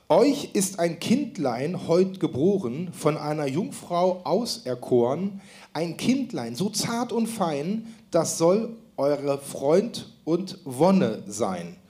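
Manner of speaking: slow, careful poem reading; slow verse recitation. Acted. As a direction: read the verse slowly and solemnly. Host recites verse slowly as quiz.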